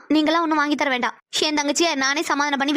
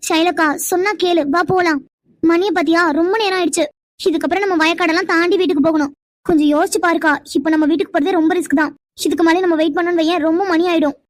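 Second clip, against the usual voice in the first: louder, pressing plea to leave; urgent pleading; 5 dB louder than usual. Acted. Younger girl urging her sister home, louder plea. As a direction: raise your voice to hurry her.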